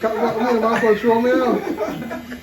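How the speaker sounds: loud, laughing outburst, drawn out at the end; laughing incredulity. Real, not acted. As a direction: crack up in disbelief while retelling it. Retelling a shock while cracking up.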